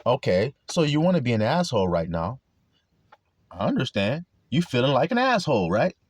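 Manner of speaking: calm acceptance. Acted. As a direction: acknowledge their mood without rising to it. Calmly answers an angry person.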